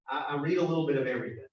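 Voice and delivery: little leaned on hard, the rest quick; stress on little. Shown as a demonstration. Stressing how little he reads everything. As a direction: hit the word little so it sounds small. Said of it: "with emphasis on the word little".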